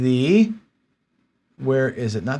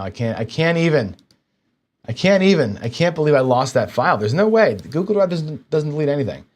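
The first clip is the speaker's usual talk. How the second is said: angry disbelief; 3 semitones higher than usual. Real, not acted. Streamer who lost his file, exasperated disbelief. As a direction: refuse to believe it, frustration rising. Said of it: "I'm so angry right now".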